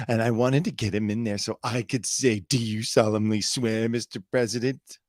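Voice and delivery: hammed-up excited liberal parody; mock-triumphant gloating; mock super-excited. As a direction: imitate an over-excited political crusader. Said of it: "They're, like, super excited".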